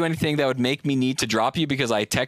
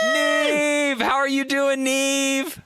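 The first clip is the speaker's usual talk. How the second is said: excited greeting; 11 semitones higher, much slower than usual. Real, not acted. Greeting friend on call excitedly.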